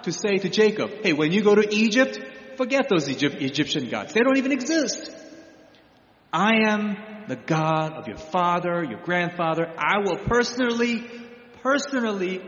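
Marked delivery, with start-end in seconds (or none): 1.0-9.7 lightly voiced God, rising then settling; a hint of God promising, warmly; God reassuring Jacob. Paraphrasing God speaking to Jacob. 9.8-12.4 personally raised and pressed; personally said high and firm; stress on personally. Acted. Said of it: "personally and emphatically promises".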